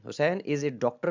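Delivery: slow example with doctor made prominent; teacher reading a sample sentence slowly, leaning on doctor; slow classroom demo of the tonic word; stress on doctor. Shown as a demonstration. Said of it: "में आपने डॉक्टर को prominent किया".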